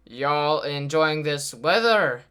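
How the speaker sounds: imitating an awkward stranger, very slow; drawn-out mimicry of a clumsy greeting; real awkward. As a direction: stretch out the small talk awkwardly. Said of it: "He said it kinda like that".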